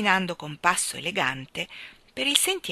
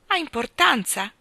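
cheerful; 6 semitones higher, 5 dB louder than usual. Acted. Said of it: "sorridendo allegramente".

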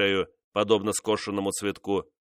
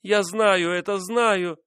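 much higher, anguished confession; cry; 10 semitones higher, 4 dB louder, slower than usual. Acted. Mistress admitting her fault to the king, high anguished cry. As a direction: cry out the guilt in despair.

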